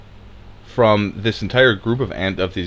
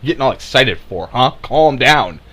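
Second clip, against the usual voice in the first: high, loud mimicking scold; hammed-up plea to settle down; mock exasperation; 4 semitones higher, 3 dB louder than usual. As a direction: play the exasperated critic, pitched up. Mimicking critics dismissing people's alarm.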